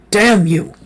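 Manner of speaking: high, loud furious outburst; shouting. A narrator's reading. Cornered on the tower, cursing the creature, loud shout. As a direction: spit the curse out at the top of your voice. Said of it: "I shouted".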